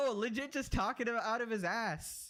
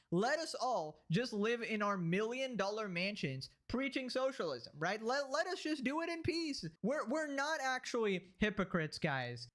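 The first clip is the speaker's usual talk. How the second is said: mock pleading. Mocking rich socialists defending their mansions, falsely pleading. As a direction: parody a sanctimonious self-defence.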